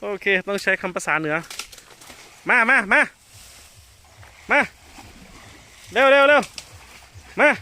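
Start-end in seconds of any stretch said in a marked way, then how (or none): 2.5-7.5 high, loud urging call. Real, not acted. Mahout urging elephant to hurry, loud call.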